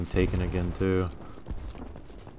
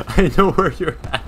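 higher-pitched mock imitation; teasing high-voiced mimicry; mocking echo; 7 semitones higher, 4 dB louder than usual. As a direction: parrot a friend's line back in a high voice. Mockingly echoes the other player's line.

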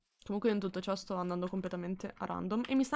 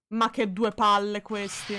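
annoyed; 6 dB louder, slower than usual. Real, not acted. Annoyed by zombies.

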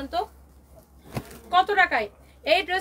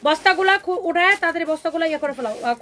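louder, urgent call to the staff off-mic; calling out to helpers; 6 dB louder than usual. Real, not acted. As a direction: hurry the helpers along, raised voice. Calling helpers to open sacks. (জোরে ডেকে তাড়া দেওয়া)

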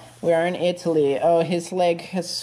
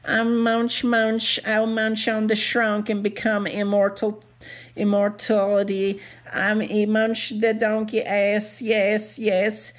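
lightly raised voice of a greedy bug; munching bug creature; 4 semitones higher than usual. Acted. A bug toy boasts about eating everyone, gleeful. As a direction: gloat as a hungry little bug.

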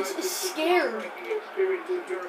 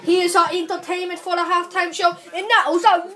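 announcer; 4 dB louder than usual. Pretend. Announces halftime show.

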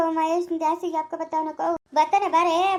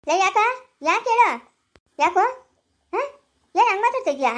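loud, angry retort; indignant challenge; 4 dB louder than usual. Acted. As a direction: throw the questions back sharply. Challenging the scolder back.

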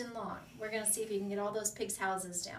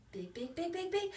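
excited coaching; 7 semitones higher than usual. Shown as a demonstration. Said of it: "coach urges big breath".

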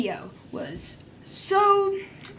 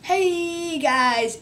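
higher, chirpy YouTuber hello; mock energetic greeting; 5 semitones higher than usual. Vlogger mocking the daily hyped-up intro, lightly. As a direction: pump up the greeting. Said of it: "The one that doesn't go".

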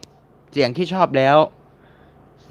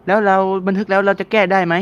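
viewer question; 7 semitones higher than usual. Retold or imitated. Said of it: "คุณว่า".

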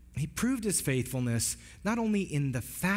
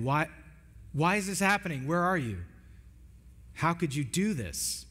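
mildly raised cry of questioning; retold anguished cry; 3 semitones higher than usual. Jesus on the cross questioning God, a restrained retold cry. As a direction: cry out in reproach, without really shouting. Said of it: "he's crying out to God".

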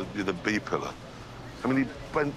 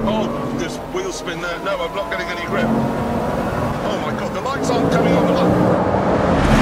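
panicked shouting; 8 semitones higher, 8 dB louder than usual. Real, not acted. Stuck spinning in dark tunnel.

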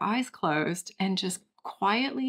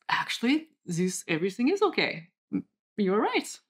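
put-on Pierre's French accent. Caveman Pierre calming down and answering, bad French accent. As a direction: concede it in a half-hearted French accent. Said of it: "give you a response in French".

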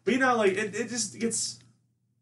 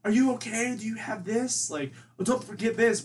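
hover mom; 6 semitones higher than usual. Retold or imitated. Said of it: "she very much was a hover mom".

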